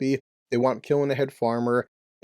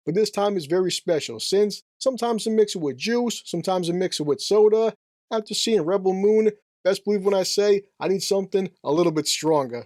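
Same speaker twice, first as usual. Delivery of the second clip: higher-pitched, put-on Jersey accent; 5 semitones higher than usual. Vlogger toasting viewers before his review, hammed-up Jersey accent. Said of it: "stop doing such a shitty Jersey accent".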